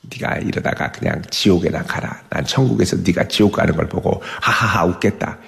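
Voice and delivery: hushed, smug taunt; gloating smug believer. Retold or imitated. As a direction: gloat under your breath at the sinner. Smug believer gloats over sinner.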